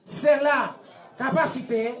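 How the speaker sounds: broken into short chunks with pauses; feed it piece by piece for echoing; teacher leading a group recitation; repeat-after-me delivery. Shown as a demonstration. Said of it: "répétez après".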